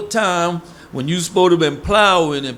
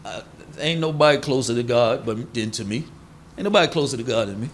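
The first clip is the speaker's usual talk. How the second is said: lower, smug mock boast, rushed at the end; over-righteous boast; 7 semitones lower than usual. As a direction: lightly play a self-righteous man bragging. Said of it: "That's when they say".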